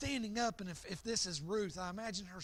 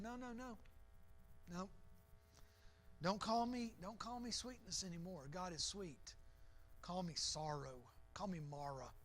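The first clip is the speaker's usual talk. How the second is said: softer, sinking, bitter refusal; bitter sorrow; 3 semitones lower, 7 dB quieter than usual. Acted. Naomi telling the townswomen to call her Mara, softly bitter. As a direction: let each line drop lower into sorrow. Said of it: "a little angry at God".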